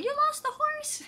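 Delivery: very high mock-upset squeal; imitated upset friend. Imagining Icarus upset over the lost horse, mock outrage. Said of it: "She'll be like".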